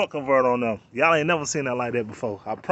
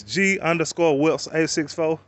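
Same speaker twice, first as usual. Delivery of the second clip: slow spelling out; slower than usual. Shown as a demonstration. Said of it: "So it's".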